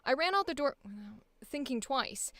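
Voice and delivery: "without" swallowed, barely voiced; no emphasis on without. Shown as a demonstration. Coach showing the actor a word with no emphasis. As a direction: let "without" vanish as if it weren't there. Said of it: "I might go".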